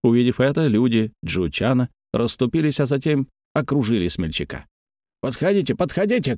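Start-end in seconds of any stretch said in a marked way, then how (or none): 5.2-6.4 narrated challenging cry. A narrator's reading. Surrounded farmhand to his foes, mild challenging cry. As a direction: dare them closer in a raised pitch. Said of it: "кричал Тянь Нюэр".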